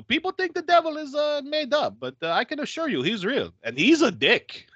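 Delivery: lightly voiced earnest priest who lands the last line. Voicing the priest Padrigo.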